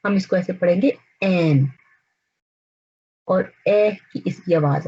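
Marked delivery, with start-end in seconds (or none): 1.2-1.7 ऐन said lightly, without the throat push; soft Urdu ain. Shown as a demonstration. Teacher showing the light Urdu ऐन. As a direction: say ऐन softly, no heavy stress. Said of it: "Urdu में हम इसको बहुत ज़्यादा जोर दे के नहीं पढ़ते".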